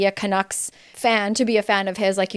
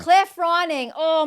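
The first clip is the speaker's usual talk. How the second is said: higher-pitched cry of dawning recognition; sudden recognition; 7 semitones higher, slower than usual. Real, not acted. Host kicking herself over the missed player's name, sudden recognition. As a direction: repeat the name as it suddenly clicks.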